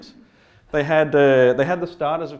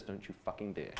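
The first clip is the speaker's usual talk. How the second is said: a much softer, strangled mock threat with a laugh; girlfriend's horrified low warning over the table; 8 semitones lower, 18 dB quieter than usual. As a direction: imitate her hissed warning, voice pulled right down. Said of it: "looks at me with this look of horror".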